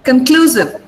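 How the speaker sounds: "Conclusive" with the weight on CLU; light "con", strong CLU in "Conclusive"; stress on CLU. Shown as a demonstration. Teacher quizzing students on stress, "Conclusive" stressed on second syllable. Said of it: "where did I stress it".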